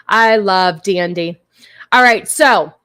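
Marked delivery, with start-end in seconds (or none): 0.1-1.4 "I love Dandy" slower and louder; slow, louder affectionate repeat; slow fond. Shown as a demonstration. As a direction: drag "I love Dandy" out fondly.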